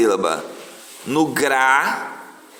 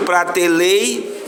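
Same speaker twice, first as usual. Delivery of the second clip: "pratelei" stretched up to the break; drawn-out teacher's dictation of "pratelei"; syllable by syllable; 3 semitones higher, much slower than usual. Shown as a demonstration. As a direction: say "pratelei" slowly, holding the last syllable. Teacher shows where word splits.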